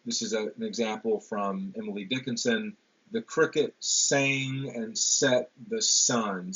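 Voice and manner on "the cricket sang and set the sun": slow line with weight on "sang", "set" and "sun"; stressed alliteration. Shown as a demonstration. Lecturer showing alliteration in a Dickinson line, stressed syllables. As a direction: recite slowly, landing on "sang", "set", "sun". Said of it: "All those syllables are stressed".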